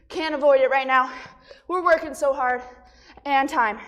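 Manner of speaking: out of breath mid-workout; panting between words; heavy breathing. Real, not acted. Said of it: "Sorry for my heavy breathing".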